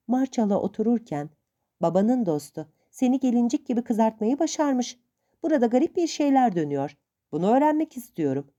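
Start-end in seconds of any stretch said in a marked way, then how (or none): 1.8-8.5 a higher voiced old aunt, lightly stern; hint of a stern old aunt.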